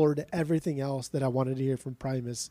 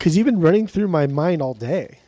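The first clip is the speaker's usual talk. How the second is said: smooth, louder pickup-line delivery; cheesy pickup line; 5 dB louder than usual. Pretend. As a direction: lay on the cheesy charm. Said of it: "you're so stupid".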